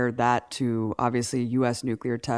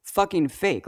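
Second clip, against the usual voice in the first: high, slow scoffing; a touch of scornful disbelief; reacting to the fake scene, high and slow; mock disbelief; 7 semitones higher, slower than usual. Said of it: "I was just like".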